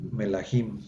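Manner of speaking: melahim with the accent on the last syllable; stress on final syllable. Shown as a demonstration. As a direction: say melahim, landing on HIM. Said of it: "Entonces se pronuncia".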